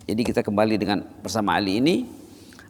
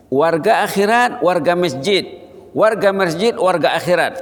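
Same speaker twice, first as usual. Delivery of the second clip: raised rhythmic chant-like refrain; emphatic refrain; 6 semitones higher, 4 dB louder than usual. Acted. Preacher closing with a raised refrain. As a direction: ring out each phrase.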